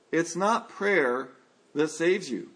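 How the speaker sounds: "not" drawn out slowly; slow, weighty "It's not prayer"; stress on not. Shown as a demonstration. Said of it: "the emphasis is not on".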